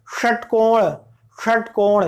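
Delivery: षटकोण with a retroflex sh, tongue curled to the roof. Shown as a demonstration. Teacher models retroflex षटकोण for students, tongue curled back. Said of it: "मूर्धा सा की बात कर रहा हूँ".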